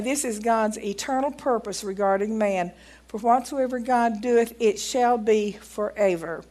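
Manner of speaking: measured, emphatic reading of an account; reading aloud. Acted. Preacher reading a doctor's testimony to the congregation, deliberate read-aloud. Reads book quoting scripture.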